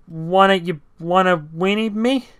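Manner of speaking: high, slow, choking warble; shrill stammer. Acted. Scared driver trying to sound cool, a shrill choking stammer. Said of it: "trailed off in a shrill, choking warble".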